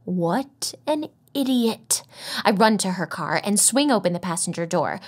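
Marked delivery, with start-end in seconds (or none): none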